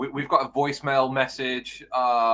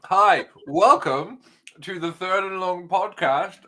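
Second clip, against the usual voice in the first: podcast host intro; 2 semitones higher, slower than usual. Acted. Formal podcast intro, slowly drawn out.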